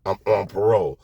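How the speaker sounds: low, hushed worried plea; nervous friend. Retold or imitated. Zaza on parole quietly pleading with Weez, low and nervous. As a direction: murmur it like someone scared of getting caught. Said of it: "he turns to me and says".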